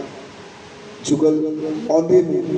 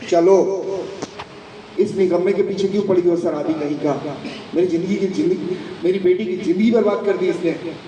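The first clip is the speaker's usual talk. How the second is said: mildly angry scolding, slightly raised; indignant mother; 3 semitones higher than usual. Acted. Mother berating her daughter's useless husband, indignant. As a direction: scold with a touch of outrage.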